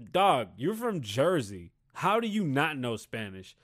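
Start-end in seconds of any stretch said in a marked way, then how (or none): none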